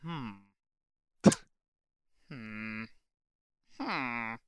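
a light, mild villager hum; Minecraft villager. Acted. Host hums like a Minecraft villager for the co-host. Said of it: "my best Minecraft villager impression".

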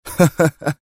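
short high sarcastic chuckle; mocking laugh. A narrator's reading. Adham laughs at Dwight's threat, mockingly. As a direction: laugh him off with scorn. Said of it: "أطلق أدهم ضحكة ساخرة".

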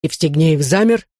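ordinary delivery

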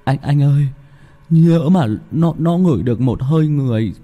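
high, stammering scared sidekick; frightened sidekick. Acted. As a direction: stutter it out, afraid.

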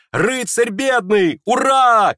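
very high, loud ecstatic cheer; rapturous shout. Acted. Kolya to everyone, rapturous cheering shout. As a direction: cheer in delight. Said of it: "крикнул в упоении Коля".

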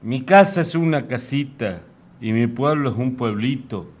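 declaimed verse in rhythmic phrases with pauses; comic folk-poem declamation; poem recital. Acted. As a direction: recite with swinging pitch, rising openings and falling line ends. Reads own poem aloud.

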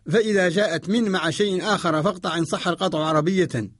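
ordinary delivery

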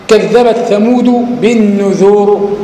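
slow, drawn-out recitation of the verse; Quran recitation. Shown as a demonstration. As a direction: recite it very slowly and measured. Teacher recites Quran example. (تلاوة بطيئة مرتلة)

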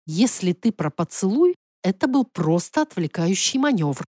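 controlled, even reply; trying for emotionless. Acted. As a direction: keep feeling out of the explanation. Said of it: "старалась говорить без эмоций". (сдержанно, стараясь без эмоций)

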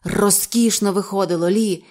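plain reading voice

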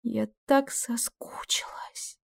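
slow, soft, unvoiced whisper; breathless whisper. Kes whispers to Amon how she missed him, slow and soft. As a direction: whisper it longingly. Tender confession.

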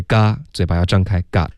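嘎 then GOT with a wide "ah"; open-mouthed got. Shown as a demonstration.

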